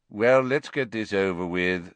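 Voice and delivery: understated reedy official; lightly voiced reedy committee man. Committee member wanting it over with, slightly reedy voice. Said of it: "the reedy voice of the committee member".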